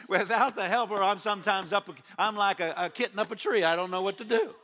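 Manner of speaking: chuckling through the words; laughing. Real, not acted. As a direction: laugh at yourself as you admit it. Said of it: "laughing at himself".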